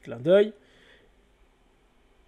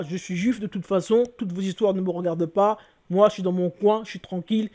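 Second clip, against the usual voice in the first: higher-pitched mock boasting, lightly acted; mock boasting believers; 4 semitones higher, 4 dB louder than usual. Rival believers each claim to be chosen, mock boasting. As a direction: imitate rivals each proclaiming themselves the best.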